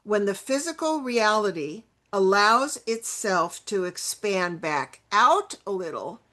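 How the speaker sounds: measured read-aloud with pauses between phrases; careful, phrase-by-phrase reading; slow reading. Real, not acted. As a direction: read the quote out deliberately. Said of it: "I'll read it slowly".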